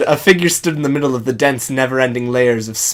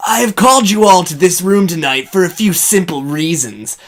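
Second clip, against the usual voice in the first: a touch higher, bold heroic read; 4 semitones higher than usual. Acted. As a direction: address the troops like a hero.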